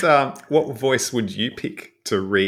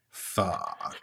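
deep, drawn-out swear, much lower than usual; deep sonorous cop's curse; the Bunk; 10 dB quieter than usual. Retold or imitated. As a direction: let one low, sonorous curse hang. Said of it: "has such a deep, sonorous voice".

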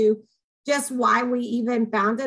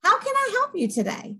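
bright and much higher, like a cheerful clerk; a sunny, high-pitched offer of help; eager helper; 10 semitones higher than usual. Pretend. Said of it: "our whole attitude is".

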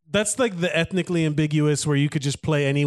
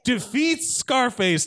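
announcer shout; 5 semitones higher, slower than usual. Acted. Announcing the winner.

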